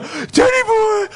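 high, slow shout of the dog's name; calling the dog. Retold or imitated. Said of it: "I'm over there going".

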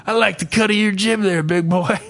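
hammed-up flirtation; mock flirty woman. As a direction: playfully voice an admirer flirting.

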